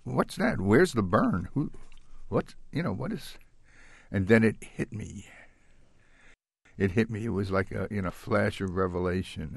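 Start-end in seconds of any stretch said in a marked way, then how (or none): 0.0-3.4 higher, wavering questions, pitch swinging; mildly bewildered, searching questions; retold puzzlement. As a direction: ask in halting confusion, trying to work it out. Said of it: "and I said".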